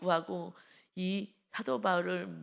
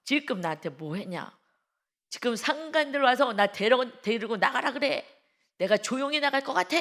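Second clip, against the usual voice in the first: swaggering; 5 semitones higher, 5 dB louder than usual. Retold or imitated. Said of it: "갑자기 어깨에 힘주면서".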